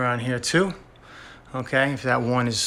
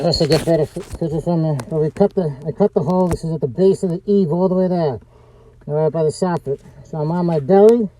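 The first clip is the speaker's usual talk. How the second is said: talking through a dust mask; muffled by a mask; 5 dB louder than usual. Real, not acted. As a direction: mask over the mouth, muffled words. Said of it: "I have my mask on".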